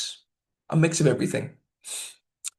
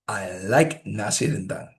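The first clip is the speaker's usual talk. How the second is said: LIKE rising above a low "I"; higher pitch on LIKE; 5 semitones lower than usual. Shown as a demonstration. Teacher giving an example of liking food, "like" pitched up. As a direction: lift "like", then drop for "nasi rendang". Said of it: "normally it's a higher pitch".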